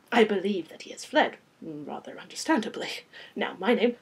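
put-on measured French-accented explanation; courtly French-accented vampire; rich French accent. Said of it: "with a rich French accent".

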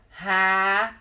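"rabanete" as ra, ba, ne, te; syllable by syllable. Shown as a demonstration. Teacher repeating the new word for pupils, syllable by syllable. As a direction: pause after each syllable of "rabanete". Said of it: "eu não contei as sílabas".

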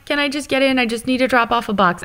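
retold naive plea. Retelling asking to get onto the tarmac, mock pleading.

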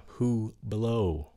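"Hublot" with stress on "blow"; second-syllable stress. Shown as a demonstration. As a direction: lean on the end of "Hublot", t silent. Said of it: "Mình nhấn cái âm thứ nhì nha".

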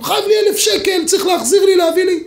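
high, loud shouting "he owes me"; angry demand. Retold or imitated. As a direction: yell your claim at the king. Litigant shouting before King David.

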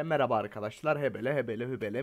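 a hint of a bored vlogger rattling off filler; mock YouTuber intro. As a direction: parody a lazy YouTuber's intro. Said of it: "ne yapar millet?".

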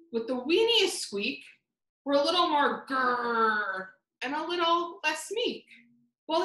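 lightly voiced small mouse, dreaming aloud; hopeful mouse. Mouse wishing for a roar, lightly voiced hopeful mouse. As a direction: talk yourself into being braver.

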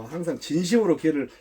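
ordinary talk

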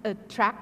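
"attract" opening on a weak schwa; unstressed first vowel in attract. Shown as a demonstration. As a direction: say "attract" with a lazy uh at the start, not at. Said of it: "ไม่ at นะ".

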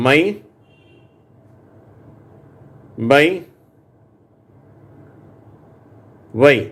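மை, பை, ஒய் each said as my, by, why with long pauses; reading words for repeating. Shown as a demonstration. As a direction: model the words for students to echo. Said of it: "நான் படிக்கிறேன், சொல்லுங்க".

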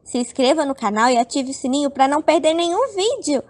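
fast, upbeat sign-off; channel outro. Acted. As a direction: rattle off the subscribe pitch.

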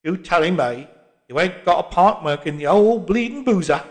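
put-on indignant old Londoner; bristling old cockney voice; old cockney man. A narrator's reading. Old man argues with barman.

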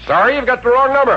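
curt brush-off. Acted. Eddie hanging up on Bentley.

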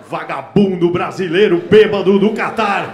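loud, mocking headline; news anchor shouting a headline. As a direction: blare it like a tabloid anchor. Mock TV headline read aloud.

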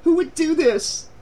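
high, dismayed question; crying out. A narrator's reading. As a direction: ask it high, in alarm. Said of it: "she cried".

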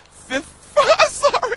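high squeaky laughing apology; collapsing into giggles; anchor stifling giggles. Real, not acted.

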